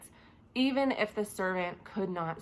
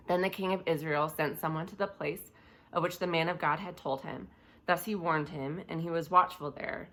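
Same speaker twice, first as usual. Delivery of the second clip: scripture reading; 2 semitones lower, 4 dB quieter than usual. A narrator's reading. Preacher reading the story of Elisha to listeners, scripture reading. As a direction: read the passage aloud in a subdued, even voice.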